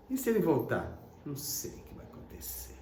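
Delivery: ordinary talk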